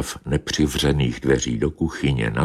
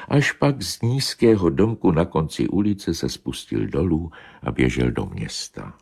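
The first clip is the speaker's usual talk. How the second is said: ordinary delivery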